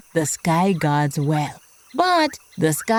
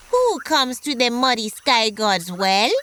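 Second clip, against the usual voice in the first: frog calling out; 4 semitones higher than usual. Acted. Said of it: "The frog saw him coming and shouted".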